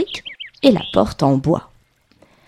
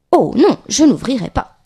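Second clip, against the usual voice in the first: higher, louder storybook refusal; defiant little pig; 4 semitones higher, 3 dB louder than usual. Acted. Little pig answers the wolf at the door, defiant. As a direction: refuse firmly as a lightly voiced piglet.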